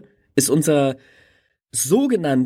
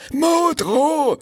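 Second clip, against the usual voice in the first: very high, drawn-out wild West voice; hammed-up high politician impression; Modrow; 13 semitones higher than usual. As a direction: whoop the name in a high caricature. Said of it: "der hat eine richtige Wildwest-Stimme".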